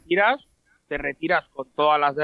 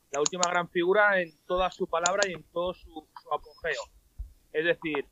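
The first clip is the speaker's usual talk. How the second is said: quiet, distant from the microphone; far from the mic; 5 dB quieter than usual. Real, not acted. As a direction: speak away from the mic. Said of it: "Te oigo muy bajito".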